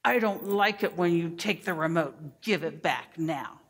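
put-on demanding, clipped child voice; imitating a pushy child; bossy child. Shown as a demonstration. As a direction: show the bossy way a child says it. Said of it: "some children sound like this".

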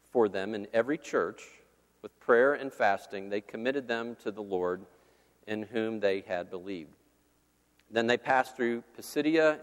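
measured, formal Bible reading; steady public reading of the Bible; scripture reading. Acted. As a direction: read the passage like scripture in church. Reads Acts passage aloud.

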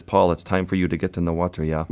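lightly imitated Swedish accent; mild mock Swedish accent; thick Swedish accent. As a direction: quote the guide with a hint of a Swedish accent. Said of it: "in his thick Swedish accent".

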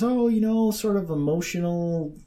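imitating a breezy, polite answer, starting high; lighthearted and polite. Woman answers an easy street question, lighthearted and polite. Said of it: "very lighthearted and nice and polite".

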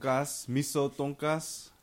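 TONKAS as slow "TONE-kahss"; careful, slow "tone-kahss" for tonkas; unusual pronunciation. Real, not acted. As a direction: slowly say tonkas in two even beats. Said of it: "You say that weird".

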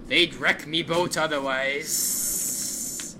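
slow, lightly voiced dwarf boatman; gigantic dwarf boatman. Gigantic dwarf answers his ghostly friend, slow boatman voice. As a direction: draw it out like an old boatman.

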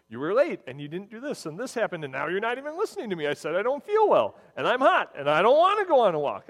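building from a complaint into a loud mock rant; angry complaint. A fiancée snapping at her boyfriend on a hot day, mock angry and loud.

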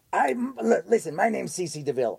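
lightly put-on rocker impression; imitation of a rock guitarist. Showing co-host his only imitation, a rock guitarist impression. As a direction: do your one celebrity imitation, lightly exaggerated. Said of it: "That's my only imitation".

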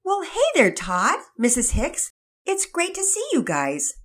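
high, loud cheerful hello; excited greeting. Acted. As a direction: greet old friends with delight. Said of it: "Daddy Peters answered excitedly".

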